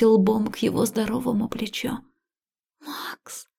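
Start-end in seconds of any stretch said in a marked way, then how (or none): 2.8-3.5 breathless whisper of his name; barely voiced, as if afraid to wake him. A narrator's reading. Liya sobbing over Max in hospital, whispering. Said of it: "шепчу я".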